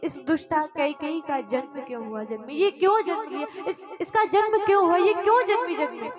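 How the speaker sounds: agitated, rushed questioning; anguished self-reproach. Acted. Bharat laments to mother Kaushalya over Kaikeyi's birth, anguished. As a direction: hurl the questions in pained anguish.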